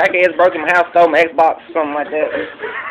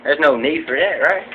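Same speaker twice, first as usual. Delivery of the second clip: rambling backwoods trophy-room tour guide; lightly voiced country hunter; hillbilly hunter character. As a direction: play a proud, dim redneck hunter showing off.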